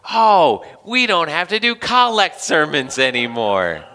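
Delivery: hammed-up joy that it's over; relieved cheer. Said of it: "you'll say".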